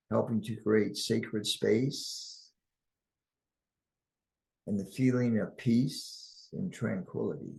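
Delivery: calm, measured meditation delivery; guided meditation. Acted. Guide inviting listeners to center and ground, calm guided meditation. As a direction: guide them gently with long pauses.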